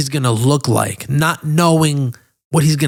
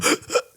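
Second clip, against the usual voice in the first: imitated gasp for air; 6 dB quieter than usual. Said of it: "And she's going".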